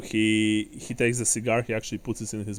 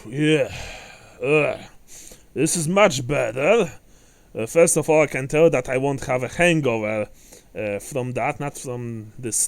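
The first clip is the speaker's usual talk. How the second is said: satisfied dwarf smoker, a bit louder; a hint of gruff approval; lightly voiced dwarf; 4 dB louder than usual. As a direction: play a dwarf pleased with a good cigar. Plays the cigar-smoking dwarf.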